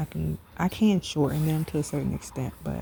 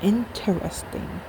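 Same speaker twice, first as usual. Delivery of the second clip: slow, drawn-out noncommittal interesting; diplomatic interesting; 4 semitones higher, slower than usual. Real, not acted. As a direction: say it politely, holding back criticism. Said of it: "I just say interesting".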